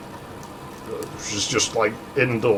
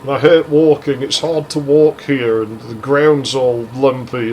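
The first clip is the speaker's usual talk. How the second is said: retold whining; 2 semitones higher, 4 dB louder than usual. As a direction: drag the complaint out as if imitating a moaner. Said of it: "she just kept whining at me".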